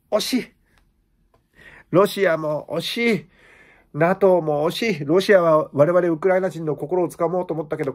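lightly voiced mock-earnest president, barely shifted from own voice; Zelensky impression. Comedian as Zelensky pleading to Japanese viewers, lightly mock-earnest. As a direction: play the embattled leader half in jest, pleading with Japan. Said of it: "ゼレンスキーでした".

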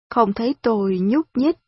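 ordinary delivery

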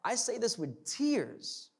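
voicing Paul, rising to a loud, high lament; Paul's tearful lament, building to a loud cry; tearful apostle. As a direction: plead it like a grieving preacher. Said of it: "he sits there and says".

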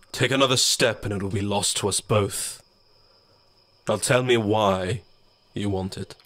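a cold warning from the dark; shadow voice. Acted. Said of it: "the shadow said".

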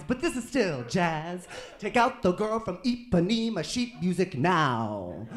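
lightly voiced teacher, emphatic and upbeat; a hint of an eager music teacher; orchestra conductor. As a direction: address the class like a keen band teacher. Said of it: "high school orchestra conductor conducting a jazz piece".

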